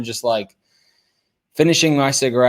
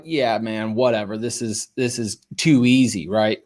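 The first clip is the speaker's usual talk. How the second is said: reluctant; 2 semitones lower than usual. Retold or imitated. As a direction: go along with it half-heartedly.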